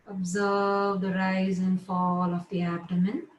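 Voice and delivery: measured yoga nidra instructions with long pauses; guided relaxation. Real, not acted. Yoga teacher settling students lying down, guided relaxation. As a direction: guide them into rest, phrase by phrase.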